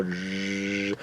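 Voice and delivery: low, soft, drawn-out buzz; buzzing ride noise. Retold or imitated. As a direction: imitate a slow machine humming along. Imitates slow ride noise.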